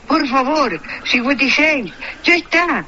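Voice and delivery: mock-frantic radio commentator. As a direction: plead like a frantic sports announcer. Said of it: "vos no sabés que venía y decía".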